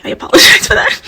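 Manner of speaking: breathless laugh through a high, loud apology. Real, not acted. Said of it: "I'm sorry".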